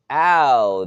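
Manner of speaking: a narrated yelp of pain; pained cry. A narrator's reading. Timid victim just smacked, crying out in pain. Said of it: "owner of the timid voice cried".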